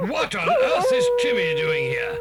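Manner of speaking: high, loud amazement; astonished cry. Acted. Captive amazed to see the dog arrive. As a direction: gasp it out in disbelief.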